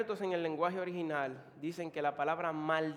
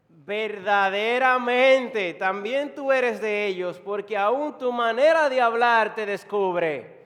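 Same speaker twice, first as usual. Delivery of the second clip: loud, drawn-out accusation; slow, booming accusers; accusing bystanders; 3 semitones higher, 11 dB louder, slower than usual. Acted. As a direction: proclaim the charge slowly and forcefully. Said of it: "dijeron a Pedro".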